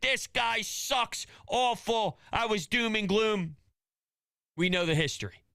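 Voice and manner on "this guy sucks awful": play-acted, stretched-out, high, furious outcry. Recalling a video a buddy secretly took of the speaker years back: retelling own screaming. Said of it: "And I'm screaming like".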